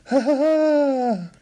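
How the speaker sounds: high, slow spelt-out ha ha ha; mock laugh. Delighted caller after the alien call, high slow mock laugh. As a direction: hoot each ha slowly up high like a cartoon.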